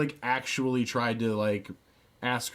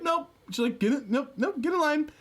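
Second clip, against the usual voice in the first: bossy supervisor. Retold or imitated. Voicing the supervisor turning him away.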